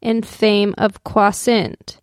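slow, measured poem recital; poem reading. Acted. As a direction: read it like a solemn old poem. Reads the Longfellow poem aloud.

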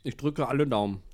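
talking while chewing; mouth full. Real, not acted. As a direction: speak through a mouthful of pasta. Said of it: "ich spreche mit vollem Mund".

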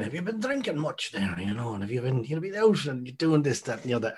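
lightly countrified Irish patter; mimicked countrified accent. Guest mimicking the host talking to men, light countrified accent. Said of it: "you get a bit more countrified".

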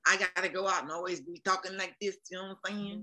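put-on stereotypical Black cartoon accent, lightly done. Voice actor showing the stereotype she rejects, mock stereotypical Black accent. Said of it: "That's a stereotypical sort of, um, accent".

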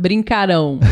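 BRINCARÃO weighted on RÃO; stress on last syllable. Shown as a demonstration. Co-teacher giving a future-tense example, final-syllable stress. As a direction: land on the end of brincarão. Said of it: "é a última".

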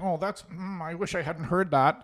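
high, soft mock dismay; deflated groan of regret; disappointed. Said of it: "everybody's like".

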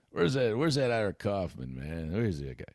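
mild impression of a coach mimicking a reporter; a hint of John Gruden doing Ira. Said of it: "I'm gonna do John Gruden doing Ira".

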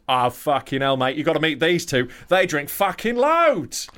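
lightly voiced excited Aussie mate, last words drawn out. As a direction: retell a mate's impressed outburst, leaning on the final phrase. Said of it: "one of his Aussie mates who goes".

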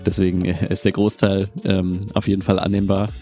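bad mic sounding like a robot; robotic, badly compressed mic sound. Real, not acted. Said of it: "es hört sich an wie ein Roboter". (Roboterstimme durch falsches Mikrofon)

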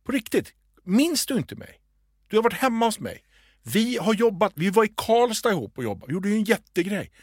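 högt tonläge, härmad förnärmad indignation; lite arg. Retold or imitated. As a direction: spela upp henne lätt irriterad och misstrogen. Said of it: "Och så blir hon lite arg". (härmar en lite arg kvinna)

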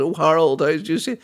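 high, fluttery put-on gossiping voice; hammed-up scandalised society gossip; mock gossip voice. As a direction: send up the royals' petty fuss. Continues royal mock voice.

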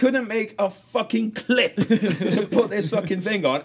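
high, loud, laughing rant; furious rant. Retold or imitated. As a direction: rant at the designer. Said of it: "I'm just thinking".

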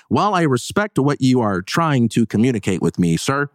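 high, overly formal recital; stiff scripted voice. Shown as a demonstration. Mocking how a scripted boundary sounds, high and stiff. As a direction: sound like reading a corporate script. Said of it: "don't sound like you're reading a script".

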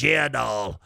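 lightly imitated smoker's voice; a hint of a lifelong smoker; older woman's smoker voice. Older woman answers her date, in a mild smoker's voice. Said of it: "And she talked like that".

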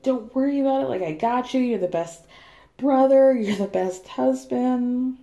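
holding back laughter; trying not to crack up; stifled giggles. Real, not acted. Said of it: "Sorry, I'm trying not to laugh".

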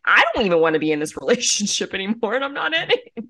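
laughing imitation. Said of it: "And I'm like".

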